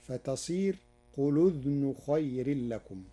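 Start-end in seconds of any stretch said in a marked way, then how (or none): 1.2-3.0 قل as qulu, the l voweled before أذن; Warsh reading. Shown as a demonstration. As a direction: join قل to أذن: qulu-dhnu. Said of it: "ورشا يضم اللام في كلمة قل".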